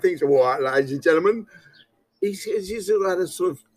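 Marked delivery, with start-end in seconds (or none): 0.2-1.5 Cockney market trader. Retold or imitated. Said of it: "he put on this kind of Cockney persona".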